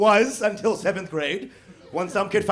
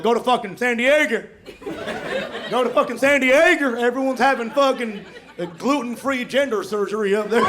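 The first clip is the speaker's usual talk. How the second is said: mock Texan rant. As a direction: rant like a scandalized redneck, lightly. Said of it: "They're like".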